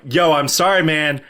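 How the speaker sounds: casual, breezy sorry; laid-back retold apology; cool apology. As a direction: toss off an apology like a cool guy. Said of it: "I wasn't that cool".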